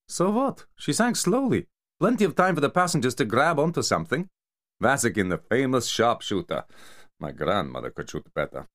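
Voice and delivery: high, scornful mafia enforcer voice; Kamar berating. Acted. Kamar mocking Vasikin for botching the sinking, high scornful rant. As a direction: sneer at the failed sharpshooter, pitched high.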